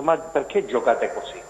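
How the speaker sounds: normal talking voice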